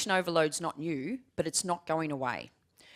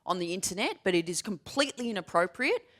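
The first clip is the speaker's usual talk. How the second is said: stern telling-off; 4 dB louder than usual. Retold or imitated. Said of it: "turned around and said".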